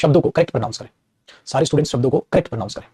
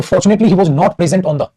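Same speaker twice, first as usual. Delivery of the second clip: very slow, word by word; slow dictation; 3 semitones higher, much slower than usual. Shown as a demonstration. Teacher showing students the corrected word order, very slowly. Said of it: "ऐसे आएगा".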